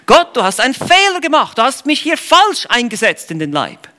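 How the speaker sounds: a lightly voiced reproach to God; mock complaint to God. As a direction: play the grumbling believer blaming God. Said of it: "klagst du letztlich Gott an".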